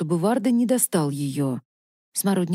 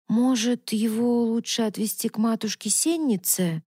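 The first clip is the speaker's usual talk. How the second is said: unsure drawl; 2 semitones higher than usual. Acted. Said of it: "неуверенно протянула Мавна".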